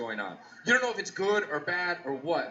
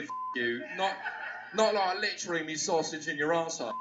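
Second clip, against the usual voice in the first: mock British rant; 3 semitones higher than usual. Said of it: "threatened by a British dude".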